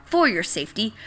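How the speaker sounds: booming mock alert to the crowd; loud announcement. Seed announcing a fake storm to everyone, loud and urgent. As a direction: call it out like a public warning.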